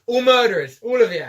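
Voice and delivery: put-on loud, high old man accusation. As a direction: bark it like a cranky old man. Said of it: "a fucking old man voice".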